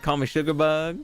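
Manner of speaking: put-on light Southern belle accent on call me sugar bug; playful hint of a Southern accent; Southern Rogue voice. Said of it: "in that sort of Rogue voice".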